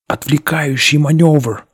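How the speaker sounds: shouted warning. A narrator's reading. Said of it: "выкрикнул Шепард".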